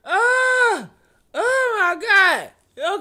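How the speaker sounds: high, slow oh my God; hammed-up disbelief, drawn out; mock shock. Reading comments, high slow mock shock.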